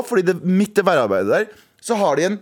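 ordinary talk

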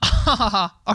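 imitated short laugh at a joke; acted-out chuckle; mock laugh. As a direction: put on a quick audience laugh. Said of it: "Og var litt sånn".

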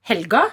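"helga" with a clear l and hard g; neutral, careful "helga"; standard pronunciation. Shown as a demonstration. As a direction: say "helga" with the g sounded. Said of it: "jeg kan si".

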